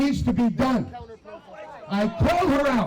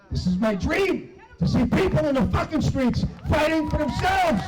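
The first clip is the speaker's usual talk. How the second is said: emotional outburst; 5 semitones higher than usual. Real, not acted. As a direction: voice rising into a passionate shout. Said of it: "I'm gonna get emotional here".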